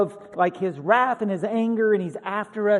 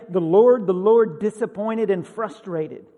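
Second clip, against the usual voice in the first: loud booming, then stern; mock proclamation; 7 dB louder than usual. Preacher mocking a wrong view of God, booming. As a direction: boom it out like a herald. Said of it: "He doesn't say".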